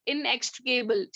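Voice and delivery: inextricable said slowly, syllable by syllable; teacher slowing down so students can follow inextricable; slow careful pronunciation. Shown as a demonstration. Teacher to class, spelling out the word slowly and carefully.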